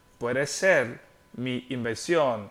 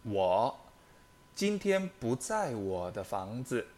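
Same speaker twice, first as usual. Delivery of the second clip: model sentence. Shown as a demonstration. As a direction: clear teacher read of 我今天不在我的房子 at steady speed. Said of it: "第二个句子".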